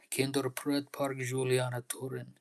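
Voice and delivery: breathy whispered plea to the park; pleading whisper. Pretend. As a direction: whisper the name Kinderpret Park Juliana Torin like a prayer. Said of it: "I'm just showing you how it makes me really feel".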